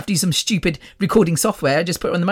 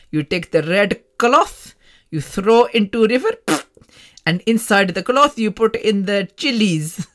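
put-on South Asian accent; 3 semitones higher than usual. Healer explaining cloth and chilies ritual, South Asian accent.

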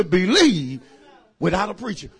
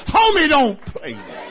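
nineties slang; 2 semitones higher than usual. Retold or imitated. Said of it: "I'd say it like this".

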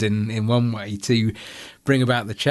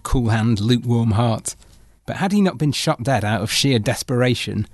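poem recitation. Acted. Recites comic poem as outro.

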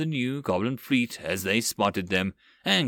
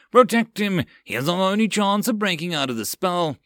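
raised commanding battle cry; shouted order; 7 semitones higher, 3 dB louder than usual. Acted. Captain shouting to his crew mid-battle, raised order. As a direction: urge the crew to guard the mage.

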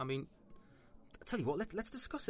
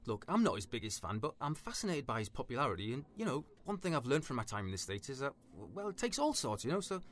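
nervous placating; 3 semitones higher than usual. Acted. Trying to humour a volatile stranger, nervously polite. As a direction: stall politely in a raised, anxious pitch.

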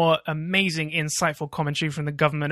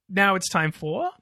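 announcer voice; 3 semitones higher, slower than usual. Acted. Segment announcement.

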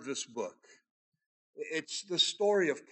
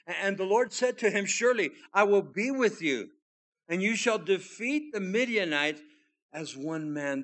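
louder, higher, forceful reading of the promise; scripture reading; 4 semitones higher, 5 dB louder than usual. Acted. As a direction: proclaim God's promise boldly. Preacher reads God's promise.

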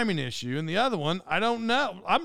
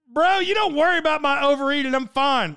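higher, louder, defensive comeback; mock indignant retort; 8 semitones higher, 6 dB louder than usual. Podcaster answering the speaker about his overeating, loud mock indignation. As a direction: tell him off, half joking.

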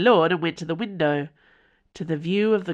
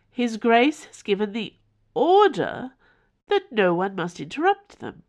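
higher, louder, eerily formal machine voice; creepy formal house; 6 semitones higher, 4 dB louder than usual. Acted. The house informing Mother in a creepy formal tone. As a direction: announce it like a cold formal servant.

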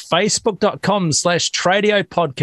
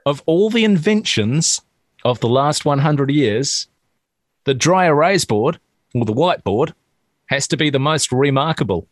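slower, each phrase spaced out; slow careful retelling. Shown as a demonstration. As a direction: spell it out slowly, pausing. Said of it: "listen carefully".

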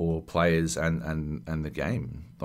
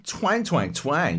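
high, loud cartoonish mock voice for the ballplayer; quoting a cringey game cameo, hammed-up high voice; goofy archer cameo; 10 semitones higher, 3 dB louder, slower than usual. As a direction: ham up the cheesy cameo line. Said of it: "All I remember is he going".

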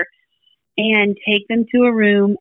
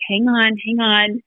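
calm hang on. Retold or imitated. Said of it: "He's very, very calm".

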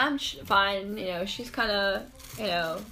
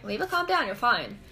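self-soothing; 2 semitones higher than usual. Retold or imitated. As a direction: coax yourself to settle, lightly acted. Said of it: "telling this to myself".

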